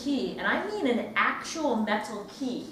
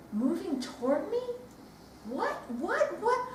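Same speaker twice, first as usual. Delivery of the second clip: higher, tense frightened questions; rising fear; 6 semitones higher, 3 dB quieter than usual. Acted. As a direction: voice climbing in disbelief. Frightened questions seeing ghost.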